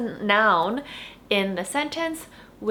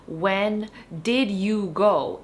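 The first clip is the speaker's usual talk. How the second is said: slow, carefully spoken English question; slow model question; much slower than usual. Shown as a demonstration. Teacher modeling the correct question, slowly. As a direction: spell the question out slowly for learners. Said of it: "it would be".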